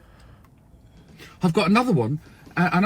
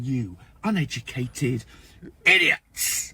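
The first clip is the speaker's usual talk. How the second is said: contemptuous inner thought; 4 semitones lower, slower than usual. Retold or imitated. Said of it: "I'm thinking".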